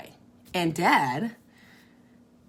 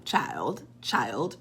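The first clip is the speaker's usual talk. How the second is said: much lower, drawn out; 8 semitones lower, 4 dB quieter than usual. Real, not acted. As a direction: drop low and stretch it. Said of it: "repeated address, correcting herself".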